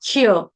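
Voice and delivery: श्य said as one syllable, shya; shya, no vowel between श and य; half sha. Shown as a demonstration. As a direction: join a half श straight into य in श्य. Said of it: "श शरबत वाला है लेकिन आधा है".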